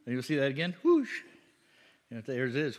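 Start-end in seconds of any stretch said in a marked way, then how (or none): 0.8-1.1 quick falling whoosh; plane whoosh. Shown as a demonstration. Preacher showing the plane sound once more, quick whoosh. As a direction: imitate a plane swooping past. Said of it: "A plane goes".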